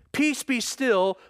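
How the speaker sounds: slow, firm command; calm the sea with authority. Retold or imitated. Jesus rebuking the wind and sea, slow and firm.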